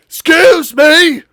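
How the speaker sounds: high, drawn-out shouted interjection; loud outburst. Acted. Character demanding attention, high slow shout. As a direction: butt in, stretching it loudly.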